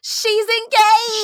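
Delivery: slow, high, loud pop-diva drawl; pop-star impression. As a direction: stretch it out like a pop star. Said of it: "I shoulda did it like Britney".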